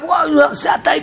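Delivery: mock ecstatic cry of "וואו, זה אתה"; excited wow. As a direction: gush at finally seeing the great prophet. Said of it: "התלהב".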